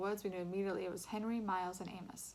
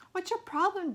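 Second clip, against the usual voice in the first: angry; 11 semitones higher, 9 dB louder than usual. A narrator's reading. Jack angry.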